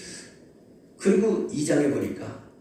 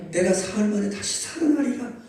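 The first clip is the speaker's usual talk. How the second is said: raised, emphatic repeat; 7 semitones higher than usual. Shown as a demonstration. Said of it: "따라서 합시다".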